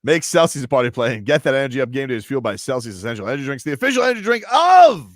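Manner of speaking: upbeat sponsor read, big finish. Acted. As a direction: sell it like a radio spot. Reads a sponsor ad.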